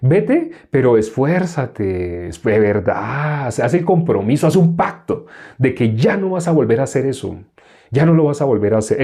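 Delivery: lightly acted preachy conditions on forgiveness; mock religious admonishing. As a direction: imitate a religious person pressing for promises. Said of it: "¿cómo le diría a un religioso?".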